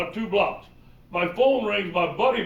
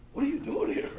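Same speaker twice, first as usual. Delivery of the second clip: Pete surprised greeting; 9 semitones higher, 5 dB quieter than usual. Retold or imitated. Pete Carroll surprised to see him.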